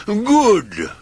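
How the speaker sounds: a pleased magician's verdict; wizard approves. Acted. The wizard approves of Mister Grumble's promise, high and pleased. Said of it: "said the wizard".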